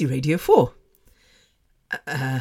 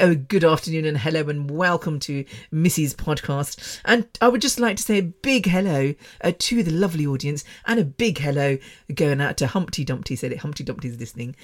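put-on posh British radio presenter. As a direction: greet listeners in a polite posh radio voice. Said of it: "with my posh voice".

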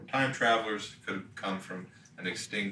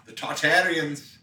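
announcer voice; 6 semitones higher, 6 dB louder than usual. Pretend. Mock announcer bit.

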